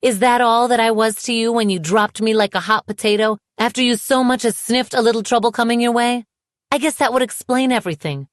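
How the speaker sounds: high, heated, indignant rant; angry tirade. A narrator's reading. Woman confronting the ex who dropped her, bitterly angry.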